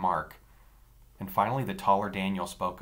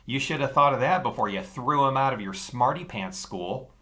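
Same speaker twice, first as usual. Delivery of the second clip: sneering; 5 semitones higher, 5 dB louder than usual. Acted. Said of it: "The taller Daniel sneered down at me".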